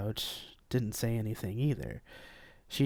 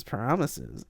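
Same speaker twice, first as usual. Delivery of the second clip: purring. Acted. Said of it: "Carla purred".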